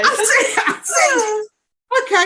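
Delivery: high laughing repeated words; can't get past the laugh; real laughter. Real, not acted. Teller laughing.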